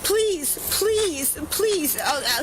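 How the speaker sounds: begging. Real, not acted. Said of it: "don't beg me".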